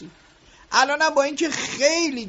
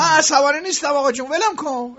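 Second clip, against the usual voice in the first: fast, louder, snappy denial of anger; irritated denial; 3 semitones higher, 4 dB louder than usual. Acted. Boss denying anger to his worker, snapping. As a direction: brush him off impatiently. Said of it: "برای چی انقدر دست من عصبانی هستی".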